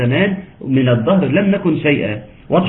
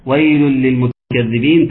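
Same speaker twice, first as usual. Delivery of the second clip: slow recitation; slower than usual. Shown as a demonstration. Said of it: "recites verse slowly".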